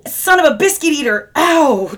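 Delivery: startled yelp. Real, not acted. Hurt by the bottle opener.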